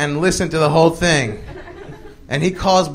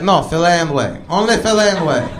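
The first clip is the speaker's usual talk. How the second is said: Arabic shopkeeper. Retold or imitated. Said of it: "it's run by an Arabic dude".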